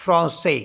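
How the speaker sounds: फ्रांसे with a nasal ॉ and an s; French français. Shown as a demonstration. Teacher pronouncing French word for class. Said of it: "इसको पढ़ते हैं हम फ्रांसे".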